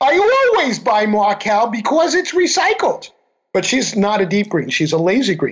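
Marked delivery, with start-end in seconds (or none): 0.0-3.1 put-on Queens accent with raised pitch. Retelling what a woman said on hearing this, in her Queens accent. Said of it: "she says in her Queens accent".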